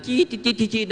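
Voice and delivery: high squeal breaking into quick chirps; imitated ear ringing. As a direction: mimic a shrill noise in the ear. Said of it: "หูดัง". (เลียนเสียงจี๊ดในหู)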